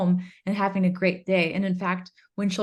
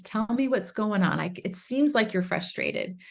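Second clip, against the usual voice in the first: curious parent. Shown as a demonstration. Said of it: "getting curious and not furious".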